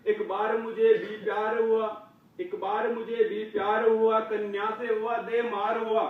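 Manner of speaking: bouncy rhyming cadence; comic poem recitation. Acted. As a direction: recite humorous verse to a crowd.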